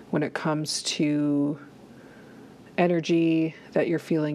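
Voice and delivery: calm guided body scan with long pauses; unhurried meditation guide, pausing often. Acted. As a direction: lead listeners gently inward, leaving space between phrases.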